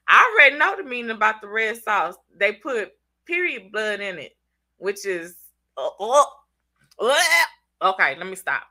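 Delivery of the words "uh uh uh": mock retching noises; hammed-up disgusted retch; dramatic gagging. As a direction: gag theatrically in disgust. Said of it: "maybe I'm too dramatic".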